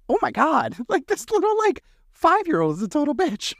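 high-pitched, laughing mock outrage; laughing disbelief. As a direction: exclaim it high, cracking up at the end. Amused outrage at rude little girl.

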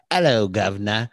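hammed-up British greeting; mock British accent. Friend teasing that he looks European, mock British accent. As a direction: put on a joking British accent. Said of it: "you really look like you wanna say".

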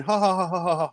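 spoken, mocking fake laugh, a little high. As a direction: imitate rival fans' gloating ha-ha. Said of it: "Chelsea fans laughing at Arsenal".

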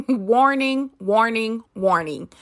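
repeated playful warning, falling each time; mock warning siren. Podcast host warning listeners, mock alarm call. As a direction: sound the alarm three times, half-joking. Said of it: "give you another warning".

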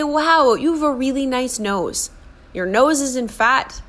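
mild teasing kindness; kind self-talk. Shown as a demonstration. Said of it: "Say, like".

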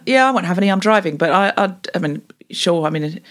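reluctant, passive-aggressive agreement; mildly pissed off. Shown as a demonstration. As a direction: grumble politely while agreeing. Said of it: "So just be mildly pissed off".

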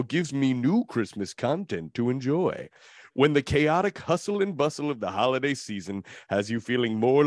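measured, dramatic trailer narration; epic movie-trailer voice. Acted. Host reads glowing listener review, epic trailer voice. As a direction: read it like an epic film trailer. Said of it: "my epic movie trailer voice".

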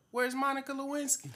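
high, loud teasing shout; laughing call-out. Retold or imitated. Regular people heckling Bill Clinton, high loud laughing shout. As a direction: yell it cheekily with a laugh.

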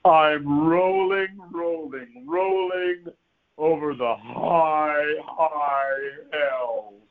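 very slow, stretched-out mock recitation; poem recitation. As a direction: draw out every word like a pompous poetry reading. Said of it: "repeat after me".

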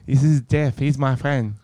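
put-on improvised Asian-accented server; mock Asian accent. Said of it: "I don't know what accent that was".

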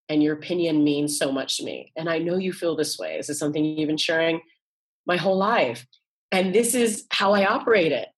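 gentle, heartfelt words to mom; loving and connected. Shown as a demonstration. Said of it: "really dropped in, fully integrated".

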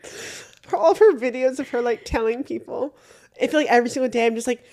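teary. Real, not acted. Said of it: "tearing up".

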